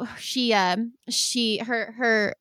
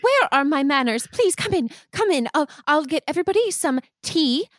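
higher, hurried fussing; fussing hostess; 5 semitones higher than usual. Acted. Mother fussing over her son's friends. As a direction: bustle about the guests.

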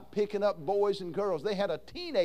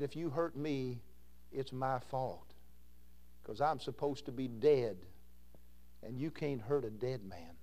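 much softer and lower, calm; gentle quiet reply; 6 semitones lower, 10 dB quieter than usual. Retold or imitated. Roloff answering Bobby softly. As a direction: speak it low and gentle, a touch of an old preacher.

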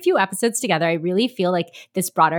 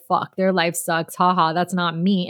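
offhand, amused put-down in usual pitch; mock laughing viewer. Speaker imitates reality TV viewers laughing at others, lightly gloating. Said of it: "like, laughing 'cause".

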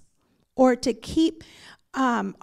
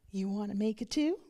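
through gritted teeth; 8 dB quieter than usual. Retold or imitated. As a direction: warn him quietly through clenched teeth. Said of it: "I'm gritting my, my teeth".

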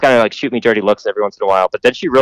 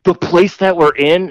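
high, slow mocking quote; imitating her smug line; mock snooty voice; 7 semitones higher, slower than usual. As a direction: sneer it like a dim know-it-all.

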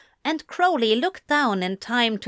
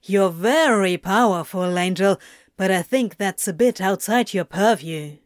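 scoffing. A narrator's reading. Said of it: "Crowley scoffed".

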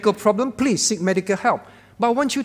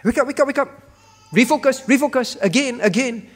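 urgent wake-up call; 4 semitones higher than usual. Acted. God urging believers to refocus.

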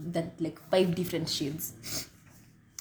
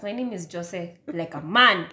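exasperated, raised-pitch apology, then the name; louder repeat. Real, not acted. Told by co-host to speak up, louder. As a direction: repeat your name with a punch on the ending. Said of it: "Say it louder".

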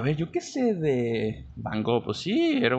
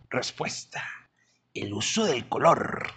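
whispered. Acted. Dramatic reveal of the video's answer.

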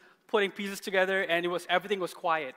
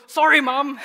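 loud, higher mock-grudging child's sorry; imitated grudging apology; 7 semitones higher, 10 dB louder than usual. Dad imitating daughter made to apologize, grudging and loud. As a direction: push out an apology you don't mean, as a child.

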